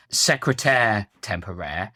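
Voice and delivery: "secrétaire temporaire" slowly in French, both ending like "air"; French pronunciation. Shown as a demonstration. Critic suggests a better lyric, "secrétaire temporaire" pronounced in French. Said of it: "the full line in French".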